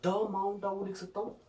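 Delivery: mock suggestion. Shown as a demonstration. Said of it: "Is this correct?".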